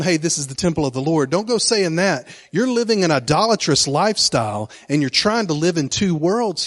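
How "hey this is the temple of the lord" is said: quick, breezy mock of empty piety; mocking quote. Preacher mocking people who hide behind the temple, fast and glib. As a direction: rattle it off glibly, poking fun. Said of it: "hey, don't go around".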